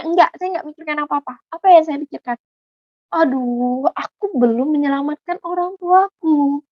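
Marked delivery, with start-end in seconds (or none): 3.1-6.6 retold anguished thought. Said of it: "Saya bilang kayak gitu".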